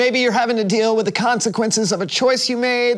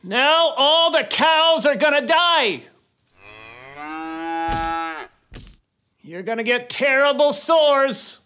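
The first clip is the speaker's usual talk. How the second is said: stern prophet warning; 5 semitones higher, slower than usual. Acted. Warning Pharaoh of the plagues.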